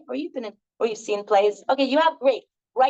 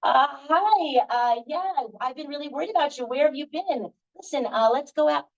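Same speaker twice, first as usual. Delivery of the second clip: accepting the scene; 4 semitones higher than usual. Acted. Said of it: "I'm gonna add something and watch".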